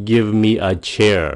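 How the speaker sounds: "a" tucked in fast, no stress; quick and clipped. Shown as a demonstration. Teacher showing viewers the quick version. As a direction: run Give me a chair off lightly. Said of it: "Một cái câu này nhanh, gọn".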